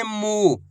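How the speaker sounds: मू with a drawn-out long ऊ; खींचकर मू बोलना; long oo sound. Shown as a demonstration. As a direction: hold the ऊ in मू. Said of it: "खींच खींच के इसका उच्चारण करना है".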